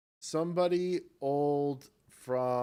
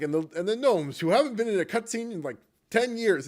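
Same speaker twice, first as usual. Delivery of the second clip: higher, louder mock narration; mocking narrator; 8 semitones higher, 4 dB louder than usual. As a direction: quote the video with a jab. Quoting the video narrator.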